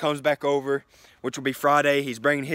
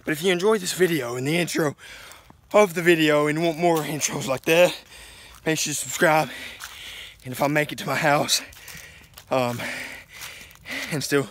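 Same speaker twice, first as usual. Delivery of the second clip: out of breath. Real, not acted. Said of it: "Sorry I'm out of breath".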